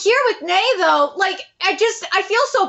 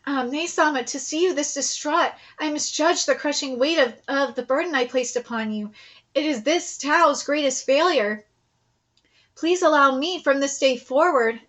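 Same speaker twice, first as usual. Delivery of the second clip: soft, lowered, formal apology; quietly grave read-aloud of a confession; lightly voiced contrite general; 4 semitones lower, 3 dB quieter than usual. General apologizes to Nay Sama, lightly voiced and contrite.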